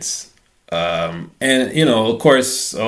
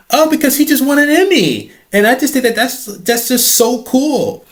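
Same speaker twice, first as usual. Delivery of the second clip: put-on starstruck girl; 4 dB louder than usual. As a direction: stretch every word like a dazzled fan.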